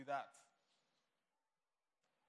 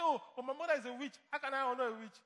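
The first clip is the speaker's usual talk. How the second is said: higher, louder whining excuse; mock complaint; 4 semitones higher, 5 dB louder than usual. A churchgoer excusing herself to the pastor, mock whining. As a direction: play the churchgoer dodging duty, a little whiny.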